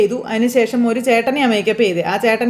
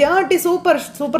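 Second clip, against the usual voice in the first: cheering; 6 semitones higher than usual. Retold or imitated. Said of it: "എന്നൊക്കെ പറഞ്ഞ് ഷൂളും ഒക്കെ വിളിക്കുക".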